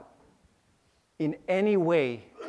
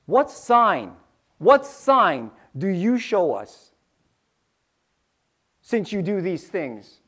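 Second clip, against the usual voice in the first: challenging Jews; 4 dB louder, slower than usual. Acted. The Jews demanding a sign from Jesus, louder and challenging. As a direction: challenge him, slowly.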